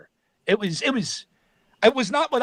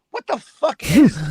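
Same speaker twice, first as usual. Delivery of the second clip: baffled; 6 semitones higher, 7 dB louder than usual. Retold or imitated. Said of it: "And I'm like".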